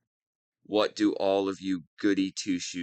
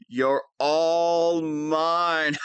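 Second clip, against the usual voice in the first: slow gloating; 5 semitones higher, much slower than usual. Acted. Villain claims captive.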